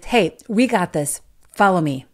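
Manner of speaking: rally the team like a leader; confident rallying call. Acted. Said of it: "the confident, high energy level person".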